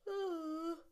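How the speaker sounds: high, loud breathy yawn. Real, not acted. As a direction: let out a big audible yawn. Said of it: "I yawn".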